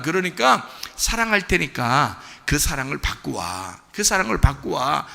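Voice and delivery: softened, slowing loving promise; reassuring Lord. Acted. The Lord promising endless love to a sinner, reassuring. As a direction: reassure gently, voice easing down. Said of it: "주님이".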